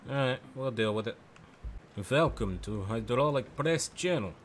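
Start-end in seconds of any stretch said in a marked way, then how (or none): 2.1-4.3 slow, heavy mock Russian accent. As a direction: drawl it like a Russian host. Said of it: "I'm working on my Russian accent".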